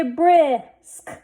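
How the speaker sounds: brisk drawn out, ending sounds separated; blended slowly. Shown as a demonstration. Teacher sounding out a word for readers, blended slowly. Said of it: "Let's read this".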